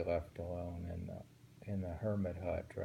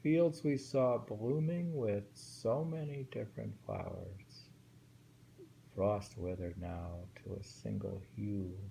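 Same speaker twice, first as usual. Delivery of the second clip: lifted, fuller poem reading; rereading the poem with more feeling. Shown as a demonstration. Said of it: "rereads poem aloud".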